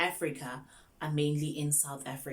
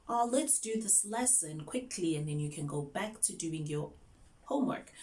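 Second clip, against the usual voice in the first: coaxing teacher. Acted. Teacher coaxing a sad student.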